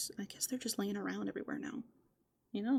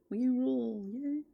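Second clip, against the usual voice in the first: louder mock-triumphant cheer, rising on yay; playful cheer; 4 semitones higher, 6 dB louder, slower than usual. Raccoon gloating to viewers that they rule the world, mock cheer. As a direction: crow it like a silly victory.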